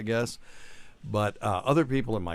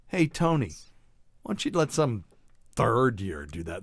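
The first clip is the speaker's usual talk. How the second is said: scornful brush-off. Retold or imitated. Classmate dismissing Tony with contempt. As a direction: sneer at the lowly third year. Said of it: "the way he said third year was just like, you know, some pond scum".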